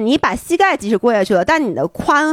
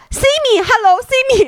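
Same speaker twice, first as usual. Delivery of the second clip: loud high call across the snow, higher and louder; 12 semitones higher, slower than usual. Retold or imitated. Calling a friend who skis past ignoring him, high and loud. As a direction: call her name up high to catch her eye. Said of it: "然后我喊".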